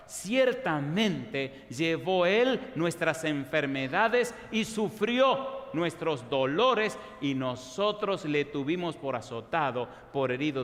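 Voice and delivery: very slow, weighty reading of the verse; slow solemn Bible reading; solemn scripture reading. Acted. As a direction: let each word land like a sacred text. Reads scripture aloud slowly.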